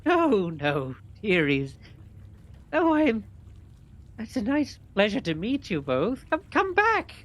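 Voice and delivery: put-on high, loud, crooning old-granny voice; hag posing as granny. Hag calls after fleeing children, old-granny voice. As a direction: call sweetly after them, swooping high. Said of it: "you see Chiselbone sort of".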